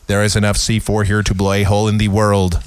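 low, wooden monotone; mocking a bad actor's deadpan; Keanu Reeves. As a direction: deliver an action line with no emotion. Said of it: "Keanu Reeves".

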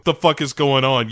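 mock outrage at full tilt; mock shouting Sue. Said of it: "she's like".

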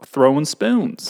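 slow Southern drawl; Southern accent. Pretend. Adding an example for co-host, slow Southern accent. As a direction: draw it out with a Southern twang. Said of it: "do it in a Southern accent".

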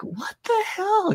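high, slow drawn-out what the hell; mock bewilderment. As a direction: stretch it out in disbelief. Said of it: "I'm like".

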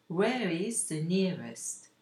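slow, clear question for learners; slow model phrase. Shown as a demonstration. Teacher repeating the phrase slowly for French learners. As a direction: spell it out slowly. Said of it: "Cela veut dire".

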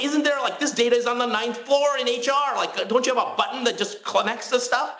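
high, pleading sarcastic pitch; exasperated disbelief. Retold or imitated. Retelling asking the bank clerk about HR data, exasperated. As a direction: ask it like it's obvious. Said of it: "I was like".

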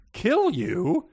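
high, loud villainous question; mocking disbelief. A narrator's reading. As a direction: throw the question back scornfully. Villain mocks pup's fear.

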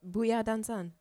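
put-on Asian accent. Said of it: "the way you said it, it sounded Asian".

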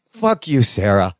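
imitating a tender declaration, dropping low on the name; mock-loving insult, voice sinking at the end; said like "I love you". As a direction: curse her as if saying "I love you". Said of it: "saying it like, "I love you".

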